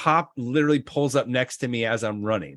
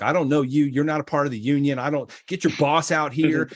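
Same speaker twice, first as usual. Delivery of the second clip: cocky, fast back talk to the guy; mouthing off; 2 semitones higher than usual. Retold or imitated. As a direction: talk back like a brash teen. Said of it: "I started mouthing off".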